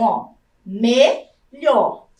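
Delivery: melhor slowly split as me-lhor; syllable by syllable. Shown as a demonstration. Teacher to pupils, sounding out melhor very slowly. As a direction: draw out melhor in two clear syllables.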